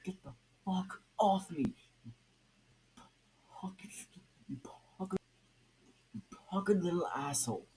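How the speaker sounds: high frantic yell, loud; screamed. Acted. Red Hood fighting off Nightwing's hug, screaming. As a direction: scream it while thrashing free. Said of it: "Red Hood screamed".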